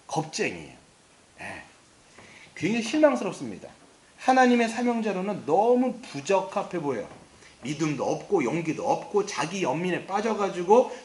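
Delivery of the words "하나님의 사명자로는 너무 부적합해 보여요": normal talking voice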